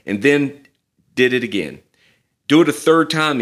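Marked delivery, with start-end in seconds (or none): 2.5-3.4 a louder, firm command; firm order. Retold or imitated. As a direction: order them to soak it once more. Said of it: "he ordered".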